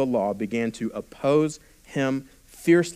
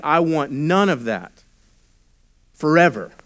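foolish; 3 semitones higher, 5 dB louder than usual. Retold or imitated. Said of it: "someone foolishly, foolishly saying".

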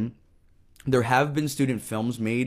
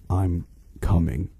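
slow, low creepy whisper; under-bed monster; 5 semitones lower, 3 dB louder, slower than usual. Acted. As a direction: creep toward the boy, drawing it out. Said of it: "said a voice from under the bed".

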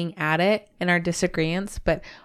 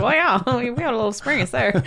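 put-on Minnesota accent; 5 semitones higher than usual. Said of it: "a little Minnesota came out of me there".

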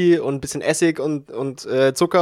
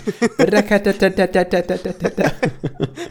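rattling machine gun noise with laughter; imitated gunfire; 4 semitones higher than usual. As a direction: spit out a burst of gunfire sounds. (nachgeahmtes Maschinengewehrgeknatter)

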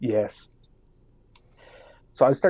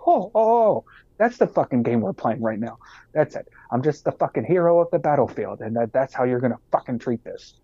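sarcastic outburst; 2 semitones higher than usual. Retold or imitated. Furious sarcastic rant at officer.

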